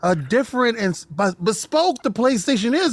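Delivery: lightly voiced smug console fanboy; Sony fanboy voice. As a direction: brag like a proud Sony fan. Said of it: "I need the S S D in the Sony baby, uh, voice".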